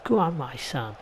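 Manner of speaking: hammed-up Cockney "Go on, my son" with a dropped hard vowel; Cockney accent. Gamer retrying the cheer in a broader Cockney accent. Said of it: "It's really hard to do a Cockney accent".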